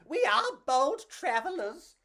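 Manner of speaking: bold cockroach. Acted. Pedro the cockroach declaring their bold mission. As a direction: announce it like a brave explorer. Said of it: "Pedro said".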